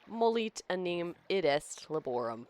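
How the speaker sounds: reading Lorem Ipsum in an American accent; a light American accent, careful reading. Shown as a demonstration. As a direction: put on an American accent for the filler text. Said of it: "try this in my American accent".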